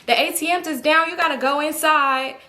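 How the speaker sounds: retold yell. Woman at the ATM calling to a man, retold yell. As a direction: imitate someone calling out, without real volume. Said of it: "I heard her yell to him".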